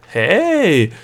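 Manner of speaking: loud, high, stretched exclamation; giddy call. A narrator's reading. Girl delighted by the gnome's rebuke, giddy shout. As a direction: cry it out in high spirits. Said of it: "rief Delia aufgekratzt".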